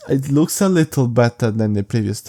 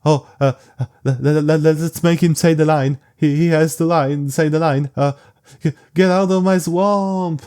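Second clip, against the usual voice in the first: stammering, higher, pleading mock exec voice; mock movie executive; 4 semitones higher than usual. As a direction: stutter out a clueless studio pitch, pitched up. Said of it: "they'll just be like".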